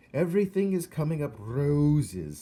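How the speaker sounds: lightly voiced theatrical old lady, up and loud; cheery old actress. Old actress telling Coraline her fortune, cheerful and grand. Miss Forcible voiced, bright.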